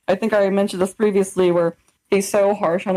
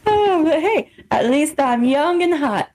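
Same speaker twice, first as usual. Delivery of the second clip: mock vain; 7 semitones higher, slower than usual. Real, not acted. Joking self-praise.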